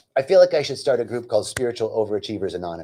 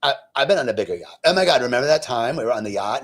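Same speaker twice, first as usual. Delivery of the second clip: quick, affected gossip voice; mock neighbor talk; faster than usual. Neighbor reminiscing with friend about a yacht, mockingly affected. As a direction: imitate rapid boastful yacht chatter. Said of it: "Literally, this is the conversation".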